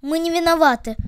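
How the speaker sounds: plaintive moan. Acted. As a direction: moan your innocence. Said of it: "жалобно простонали ноги". (жалобно, со стоном)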